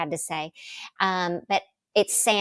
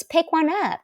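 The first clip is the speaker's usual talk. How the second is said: higher, coaxing "pick one up"; Prince's invitation; 10 semitones higher, 3 dB louder than usual. Retold or imitated. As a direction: urge her on lightly. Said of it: "And he goes".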